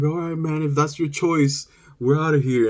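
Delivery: reluctant, mildly teary farewell; mock tearing up. Cousins giving in to the boy, mock tearful goodbye. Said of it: "they started tearing up".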